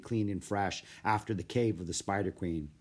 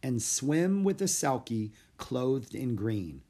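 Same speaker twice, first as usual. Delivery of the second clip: slow reading of a rhyme; slower than usual. Acted. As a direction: read the poem line slowly. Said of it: "he read the next line in Merlin's poem".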